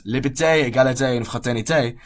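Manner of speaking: clumsy English-accented attempt at French; French slogan in a rough, non-native French accent; terrible French accent. Shown as a demonstration. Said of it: "Excuse my terrible French accent".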